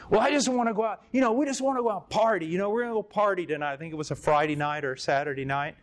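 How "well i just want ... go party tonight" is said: voicing the student. Student voiced, higher and faster.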